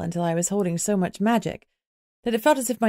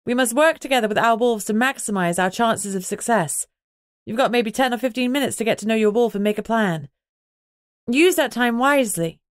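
raised voice; 4 semitones higher than usual. Acted. Alpha addressing her chattering pack, raised voice. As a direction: speak up over the noisy room. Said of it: "I raised my voice".

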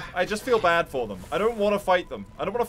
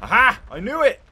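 triumphant loud aha; aha discovery; 5 semitones higher, 7 dB louder than usual. Real, not acted. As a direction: call out the find in triumph. Found a hidden secret.

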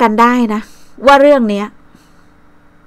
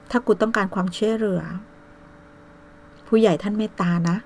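much softer, menacing warning; soft menacing warning to a rival; quiet threat; 11 dB quieter than usual. Real, not acted. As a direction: hush it down to a cold threat.

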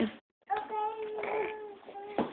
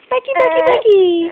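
sing-song call; 5 semitones higher than usual. Real, not acted. Calling baby playfully.

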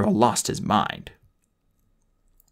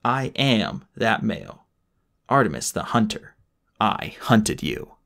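melodramatic; slower than usual. Acted. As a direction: drag each word out dramatically. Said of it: "melodramatic to the end".

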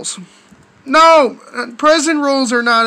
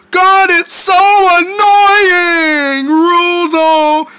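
exasperated whine; 3 dB louder, much slower than usual. Acted. Acted complaint about house rules.

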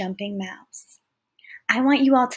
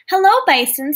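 mouse voice; 7 semitones higher, 6 dB louder, faster than usual. Acted. Mouse greets bison in story.

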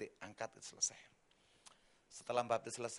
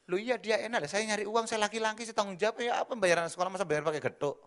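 louder, higher exasperated husband; mock indignant; 8 semitones higher, 7 dB louder than usual. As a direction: protest like a hard-pressed father. Husband argues with wife.

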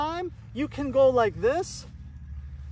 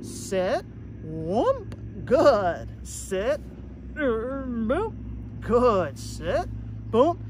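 quick demo; much slower than usual. Shown as a demonstration. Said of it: "All you're doing is conditioning a delay".

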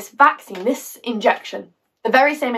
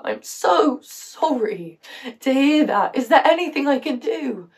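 sympathetic; 4 semitones higher, slower than usual. Acted. Acts sympathetic reply to mother.

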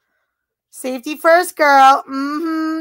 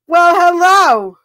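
slow, drawn-out hello with a louder, higher start; flirty greeting; 5 semitones higher, 6 dB louder, slower than usual. Real, not acted. Streamer greeting a chatter flirtatiously, a slow, louder, higher hello. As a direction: lay on the charm as you greet him.

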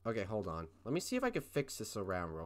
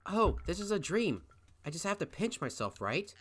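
lightly voiced girl; 6 semitones higher than usual. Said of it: "I'll go with female voice".

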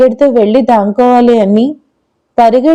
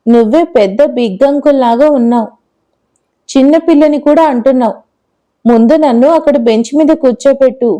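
lightly voiced little girl. Girl bosses the uncle.

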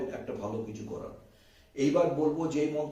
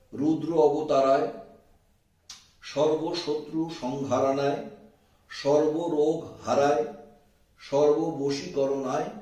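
loud, very slow mantra in separated phrases; slow dictation; 3 semitones higher, 6 dB louder, slower than usual. Shown as a demonstration. Repeating the mantra so viewers can write it, slow and loud. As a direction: draw out each phrase firmly, pausing after it. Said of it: "মন্ত্রটা আমি আস্তে আস্তে বলছি".

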